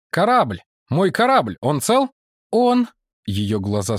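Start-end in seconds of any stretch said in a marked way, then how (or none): 0.1-2.1 high, louder anxious voice; worried Chen Ren. Acted. Chen worries about ship. 2.5-2.9 high woman's voice; woman character. Acted.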